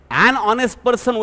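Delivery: An drawn out and slow, the n running into honest; teacher modelling An honest person for Vaishnavi; slow stressed demo. Shown as a demonstration. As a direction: lean on An, very slowly. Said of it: "कसं येतं बघा आता".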